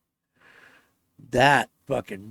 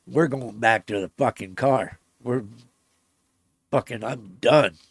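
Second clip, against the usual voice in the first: angry; 5 dB louder than usual. Retold or imitated. Storming out of the woods.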